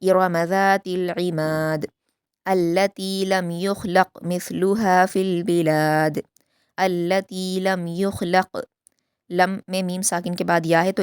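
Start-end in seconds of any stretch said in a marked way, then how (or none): 0.0-8.7 slow, melodic Quranic recitation; measured Quran recitation; tajweed recitation. Shown as a demonstration. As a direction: recite it slowly and carefully as a model for students. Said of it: "दाल पर कलकला करेंगे".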